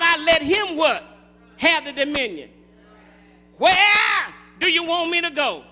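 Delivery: forceful call-and-response preaching; emphatic sermon cadence. Acted. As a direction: punch the questions out to the congregation.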